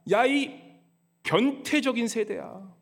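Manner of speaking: a slow, pointed scolding; Jesus scolding. Acted. Jesus scolding his disciples, slow and pointed. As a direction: drag out 변태적인 as an insult. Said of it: "주님이 그냥 욕을 하시는 게 아니라".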